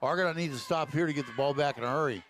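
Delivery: ordinary talk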